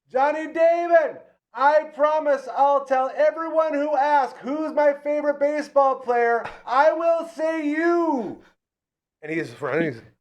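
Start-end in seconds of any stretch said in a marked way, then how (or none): 0.2-8.4 mock very high, slow, drawn-out hollering. Recalling trying to get a baseball player's attention years ago: retelling his own yell. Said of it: "I yell".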